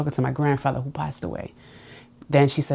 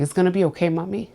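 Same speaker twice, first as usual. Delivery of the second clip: mother's comfort; 3 semitones higher than usual. Retold or imitated. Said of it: "My mother used to always tell me".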